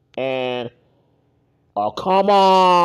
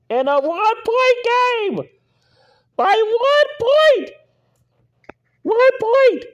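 shocked exclaim. Real, not acted. Outrage at a one-point win.

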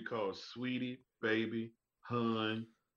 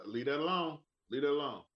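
firm repeated caution; a hint of threat; mild Southern warning; 4 semitones higher than usual. A Southern man warning you off. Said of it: "So if you hear".

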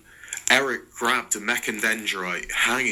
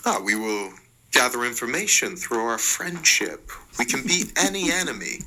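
excited cry; 3 semitones higher, faster than usual. Acted. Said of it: "cried Mark".

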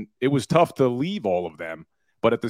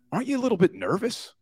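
higher, mock-alarmed question from a coworker; worried colleague; 10 semitones higher, faster than usual. Office colleague warns the lawyer about suing a murderer, higher mock alarm. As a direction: play the nervous office colleague, pitched up and quickening. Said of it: "one of the lawyers in my office says".

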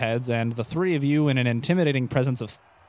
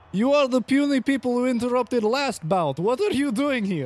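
booming champion; 10 semitones higher than usual. Acted. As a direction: sneer at the puny challengers. GM voices the arena champion.

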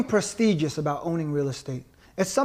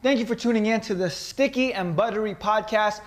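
ringmaster; 2 semitones higher than usual. Acted. Podcast intro like circus announcer.

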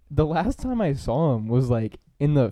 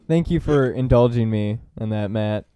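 laughing through the thanks; 4 semitones lower than usual. Real, not acted. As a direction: chuckle while saying it.

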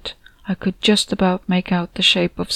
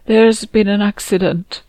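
crying; 2 semitones higher, 3 dB louder than usual. Acted. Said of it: "She was crying".

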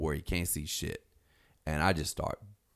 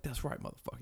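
breathy, softer taunt; whispered gloat; 7 semitones higher, 9 dB quieter than usual. Retold or imitated. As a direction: gloat quietly over him. Canyon standing over knocked-out guy.

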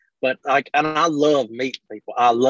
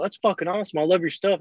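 higher excited fan voice; a hint of a gushing fan, pitched up; imitating a fan; 5 semitones higher than usual. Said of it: "He's like".

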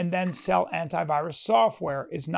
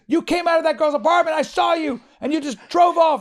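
put-on higher, louder accusing girlfriend; retold angry girlfriend; 7 semitones higher, 3 dB louder than usual. Girlfriend confronting her cheating boyfriend, higher accusing tone. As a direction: confront him with what you saw. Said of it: "She goes".

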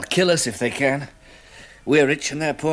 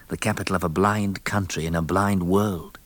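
low, measured first-person narration; story narration; 6 semitones lower than usual. A narrator's reading. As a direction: narrate it lower, in an even storyteller's tone. Narrates the story between scenes.

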